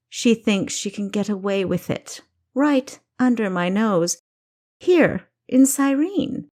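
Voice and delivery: a king whose pride is stung, pressing hard; rising royal anger. Acted.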